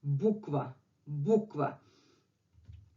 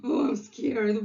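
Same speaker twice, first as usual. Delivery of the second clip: mock fright; 3 semitones higher than usual. Teacher translating the cat's fright, gasping. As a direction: gasp then say it like you're spooked. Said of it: "In English is like".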